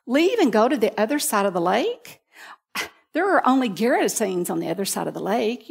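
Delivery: mildly incredulous, lilting questions; lightly acted doubt with rising phrase ends; questioning disciples. Disciples questioning Jesus about crossing the lake, mildly doubtful. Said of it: "wondered if the disciples questioned Jesus".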